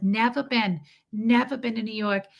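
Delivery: imitated incredulous New Yorker; lightly put-on New York accent. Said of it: "she sounded like my Russian doctor".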